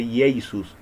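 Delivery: "Jesus" said slowly as ee-eh-SOOS, no J sound; careful demo of "Jesus" with no rasped J; Greek-style name. Shown as a demonstration. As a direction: say "Jesus" the old way, vowel-first and unhurried. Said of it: "porque no existía la J".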